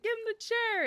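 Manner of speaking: hammed-up ringside yell, high and loud; retold yell. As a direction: belt it like a wrestling crowd. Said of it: "Johnny yelled it".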